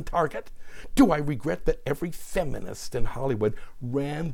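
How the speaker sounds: mounting volley of rhetorical questions; worked-up quoted rant, each question pushed upward; Roseanne Barr. Acted. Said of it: "Roseanne replied".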